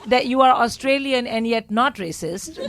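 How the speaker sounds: laughing as she coaxes. Real, not acted. Comedian laughing while coaxing a shy audience member.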